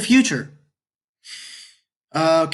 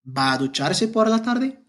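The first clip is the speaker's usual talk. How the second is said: ¿Va a ducharse por la tarde? rising gently toward tarde; question tune; 3 semitones higher than usual. Shown as a demonstration. Teacher repeats the question for students, a lighter rise. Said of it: "the intonation would be".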